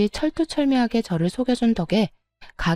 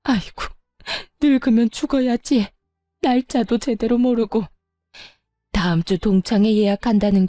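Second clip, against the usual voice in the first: fake wailing. Mother-in-law wailing on the floor to fool her son, mock lament. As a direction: fake a self-pitying wail. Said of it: "곡소리를 내기 시작하더군요".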